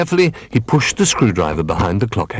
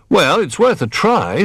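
slow, higher-pitched patient encouragement; 10 semitones higher than usual. A narrator's reading. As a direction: take time, gently willing to try. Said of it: "said Old Bear patiently".

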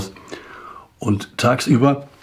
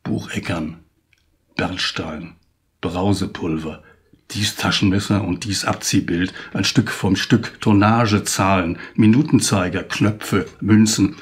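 poem recital. Acted. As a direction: carry the verses with a lifted, rhythmic recital voice. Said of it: "Und ich trage Ihnen das Gedicht jetzt vor". (feierlicher Gedichtvortrag)

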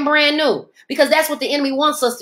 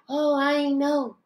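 mock innocence; 6 dB quieter, slower than usual. Mocking feigned innocence.

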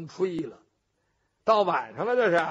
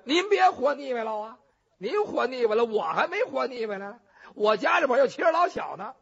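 pleading; 3 semitones higher, 3 dB louder than usual. Acted. Jailer pleads for his life.

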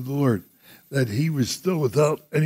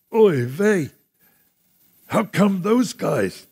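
raised-pitch, playful protest; mock complaint; 5 semitones higher than usual. Voicing a listener's complaint to God.

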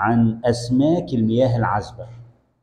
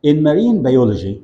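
slow emphatic term; 3 semitones higher, 5 dB louder, slower than usual. Shown as a demonstration. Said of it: "teacher emphasizes term".

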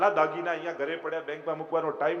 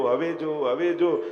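louder calls, pressing him to look; calling out; 6 dB louder, slower than usual. Retold or imitated. God loudly urging the distracted devotee to look up, calling out. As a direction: keep calling louder, insisting.

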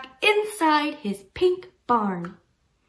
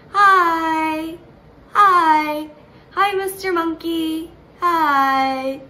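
monkey greeting; 6 dB louder, slower than usual. Acted. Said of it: "He's saying".

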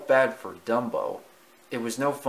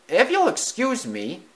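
mouse voice; 11 semitones higher, 5 dB louder than usual. Acted. Timothy voiced.

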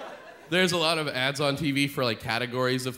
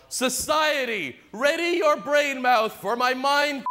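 yelling; 10 semitones higher than usual. Retold or imitated. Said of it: "I have to go outside and I have to yell".

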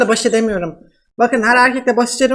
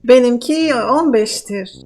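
man doing a woman's voice; slower than usual. Pretend. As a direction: fake Russian woman, broken Turkish. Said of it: "nasıl kadın sesi yapıyorum".

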